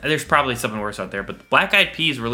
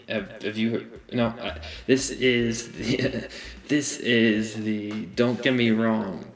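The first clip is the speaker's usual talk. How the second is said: Ryan Gosling impression. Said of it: "do I sound like Ryan Reynolds?".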